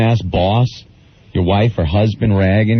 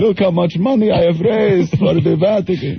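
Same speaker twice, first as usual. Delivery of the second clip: mock Pope voice; 7 semitones higher than usual. Mocking the Pope.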